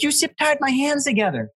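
very high mock outrage; retold freak-out. Friend who woke up zip tied, retold freak-out. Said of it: "He woke up in the morning freaking out".

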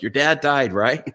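anxious confused question. Retold or imitated. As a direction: blurt out the question in alarm.

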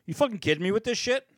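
hammed-up indignant trick-or-treater; disgusted kid. Imitating Greg scolding his aunt, mock outrage. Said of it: "He looks down and goes".

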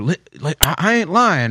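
Biden impression. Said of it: "his normal thing when he's lying".

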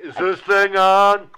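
trapped in computer voice. Pretend. Voicing trapped Tech Bitch in computer.

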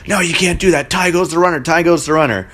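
retold yell, lightly hammed-up; mock yelling. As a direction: mimic the pitcher's insistent rule-quoting. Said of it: "the pitcher is yelling at me".

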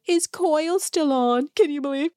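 dish it with feigned shock; catty gossip. Retold or imitated. Kyle retelling LVP's snub.

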